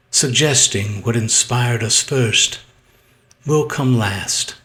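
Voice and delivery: measured poetry reading, long held stresses; poem recitation. Acted. Poet reading a sonnet aloud to viewers, measured recitation. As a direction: recite it deliberately, pausing at phrase ends.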